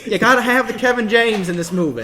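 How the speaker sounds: smug southern tycoon, lightly voiced; hint of a wealthy mogul pitching; southern movie mogul. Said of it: "my southern movie mogul".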